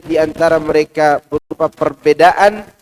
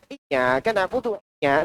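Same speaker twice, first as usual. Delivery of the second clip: mock recitation in a put-on Chinese intonation, softer; imitated Chinese accent; 6 dB quieter than usual. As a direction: misread the verse like a caricatured Chinese speaker. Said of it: "Nggak mungkin dia baca begitu". (tiruan bacaan Quran berlogat Cina)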